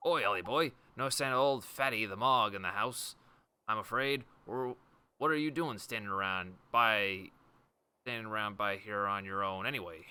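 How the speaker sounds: lightly voiced British local calling out; hint of a cockney bloke. Voices gruff game character.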